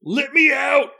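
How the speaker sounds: high, loud growling creature voice; growling monster. Acted. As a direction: snarl it from behind the door. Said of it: "Spy Eye's growling voice".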